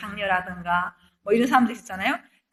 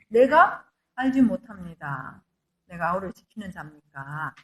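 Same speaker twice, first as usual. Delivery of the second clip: Cain's evasive reply; 6 semitones lower than usual. Retold or imitated. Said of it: "가인이 대답을 뭐라고 했어요?".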